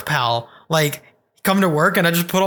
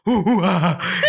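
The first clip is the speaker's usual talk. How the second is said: mock gorilla hoots at usual volume; gorilla call; slower than usual. Telling a friend to unleash the gorilla, imitated hoots. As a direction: lightly imitate a gorilla's ooh-ooh-ah. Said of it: "open the cage and say".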